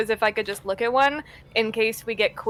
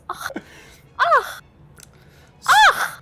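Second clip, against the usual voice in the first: repeated acted coughs; throaty put-on coughing fit; mock coughing; 3 dB louder, much slower than usual. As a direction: cough again and again in character. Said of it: "He just keeps coughing".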